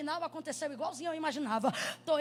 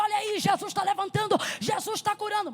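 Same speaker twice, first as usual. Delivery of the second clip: louder, playful pulpit cry; mock revival shout; 5 semitones higher, 6 dB louder than usual. Child preaching to cushions, loud mock revival shout. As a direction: imitate a preacher in full flow. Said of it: "Aí eu dizia".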